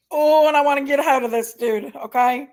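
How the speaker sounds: itching to get at him; angry and barely composed; real anger. Real, not acted. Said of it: "the anger I'm feeling right now".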